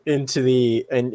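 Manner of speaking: ordinary talk, nothing marked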